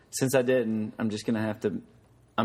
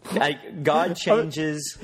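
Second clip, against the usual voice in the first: put-on slow, simple words for a small child; explaining to a child; 4 semitones higher, much slower than usual. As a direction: spell it out very slowly. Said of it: "like he would to a six-year-old".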